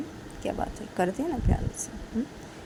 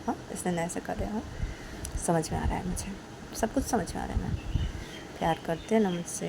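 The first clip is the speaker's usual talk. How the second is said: soft confession; 3 dB quieter than usual. Acted. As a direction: confess love quietly. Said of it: "काजल बोलती".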